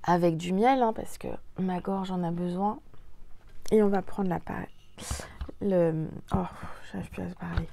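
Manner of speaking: sick, blocked nose voice; talking through a stuffy nose; nasal voice. Real, not acted. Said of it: "si je parle du nez".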